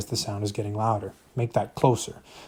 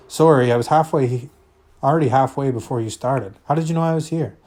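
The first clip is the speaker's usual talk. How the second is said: flustered apology; 3 semitones higher, 6 dB louder than usual. Acted.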